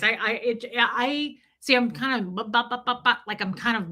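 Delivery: stammering on bu; stuck stammering on the word; stuttering. Real, not acted. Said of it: "stuttering as I think about it".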